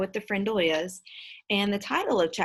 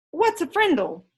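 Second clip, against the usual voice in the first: much higher, louder doubting question; skeptical girl; 10 semitones higher, 6 dB louder than usual. Acted. Janet doubting Nick, higher and louder. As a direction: wrinkle your nose at it. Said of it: "She wrinkled her nose and said".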